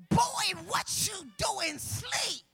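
captain scolding sleeper. Acted. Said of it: "The captain of the ship goes".

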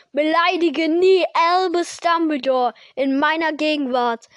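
booming angry warning; thundering. Acted. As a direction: rumble it like a giant.

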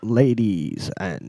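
slow, stretched American emcee voice; American accent, opening the show; American accent announcer. Pretend. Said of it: "doing my American accent for the start".

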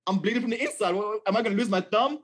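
hammed-up worried questions tumbling out; mock panic. Preacher imitating himself panicking to the doctor, mock panic. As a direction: play a half-joking alarm over a bruised thumb. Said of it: "So I'm, like, freaking out".

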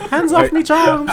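put-on high, loud Nigerian accent. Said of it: "You are Nigerian".

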